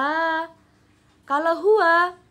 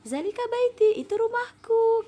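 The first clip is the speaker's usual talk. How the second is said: put-on higher girl's voice; Faridah's answer; 11 semitones higher than usual. Shown as a demonstration. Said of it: "Faridah jawab".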